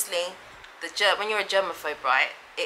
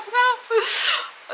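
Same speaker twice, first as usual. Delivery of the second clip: high-pitched half-laughing sob; mock crying laugh. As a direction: let out a high, teary laugh. Acting out being moved to tears.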